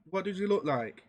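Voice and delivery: ordinary talk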